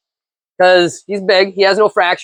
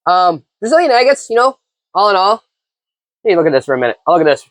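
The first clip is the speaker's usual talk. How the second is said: helium voice. Real, not acted. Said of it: "I might sound a little bit like I'm a chipmunk or something, or, you know, took some helium".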